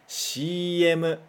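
"X M" said the Japanese way, as "shii emu"; "X M" spoken as "shii emu", like Japanese ads say it; Japanese letter names. Shown as a demonstration. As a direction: model "X M" in Japanese katakana style. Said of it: "Mais uma vez".

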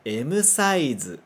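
"M size" as emu saizu; Japanese M size. Shown as a demonstration. Teacher modelling "M size" for students to repeat. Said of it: "Mais uma vez".

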